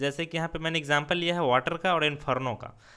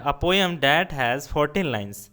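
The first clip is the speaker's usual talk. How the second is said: slow dictation; 4 dB louder, much slower than usual. Shown as a demonstration. Teacher reads definition aloud.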